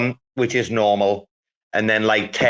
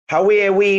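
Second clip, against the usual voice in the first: higher, louder put-on Highlander voice; Highlander impression; 7 semitones higher, 4 dB louder, faster than usual. Asked to do Highlander's voice, a louder higher greeting. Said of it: "can you do Highlander's voice".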